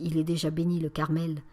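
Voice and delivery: curt, displeased reply; a touch of irritation, said flatly. Acted. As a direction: brush off the request with mild annoyance. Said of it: "d'une voix mécontente".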